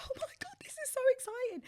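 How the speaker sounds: breathless whispered thrill, high; hushed excited gasp. Retold or imitated. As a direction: whisper it like you can't believe it. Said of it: "I was like".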